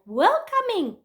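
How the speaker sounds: high, drawn-out disbelief; retold indignant surprise; acted incredulous echo. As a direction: throw the word back in disbelief. Incredulous echo of uncle's word.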